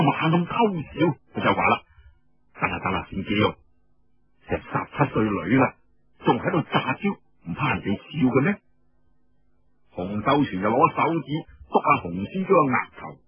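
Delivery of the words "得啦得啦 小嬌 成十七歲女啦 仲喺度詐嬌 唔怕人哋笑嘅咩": put-on teasing older man. Older man teases the girl.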